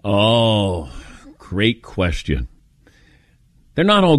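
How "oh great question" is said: stalling interviewee. Retold or imitated. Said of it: "or they'll say".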